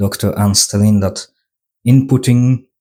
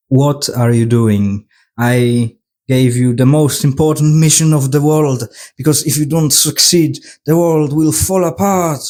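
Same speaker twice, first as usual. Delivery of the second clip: mock angry boss; 4 semitones higher than usual. Boss Joshi scolding Kay over the mission, mock-outraged rising voice. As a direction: scold him, climbing toward alarm.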